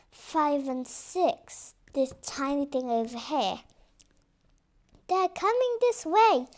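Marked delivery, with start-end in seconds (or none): 5.1-6.5 shouting. Acted. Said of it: "shouted Ka".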